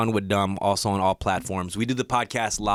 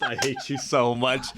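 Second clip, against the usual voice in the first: laughing. Real, not acted. Laughing at friend's crude joke.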